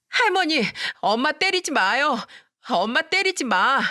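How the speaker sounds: put-on a small boy yelling to protect his mom; child shouting. A narrator's reading. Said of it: "시모한테 소리치더군요". (엄마를 지키려 할머니에게 외치는 아이)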